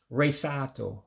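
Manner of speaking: Resato, resort with an Igbo accent. Shown as a demonstration. Teacher repeating resort for learners, Igbo-accented Resato. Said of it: "just like saying it in English with an accent".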